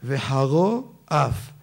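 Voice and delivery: slow Ashkenazi וחרו, with final "o", then אף; Ashkenazi pronunciation. Shown as a demonstration. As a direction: say וחרו אף the Ashkenazi way, rounded "o" against open "a". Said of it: "לפי האשכנזים איך אומרים". (וחרו אף לאט בהגייה אשכנזית)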